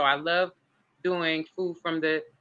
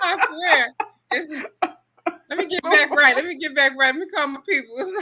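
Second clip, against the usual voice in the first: high, giggly and loud; laughing; 9 semitones higher, 3 dB louder than usual. Real, not acted. Laughing it off as the host teases her. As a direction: laugh through it while brushing off the teasing.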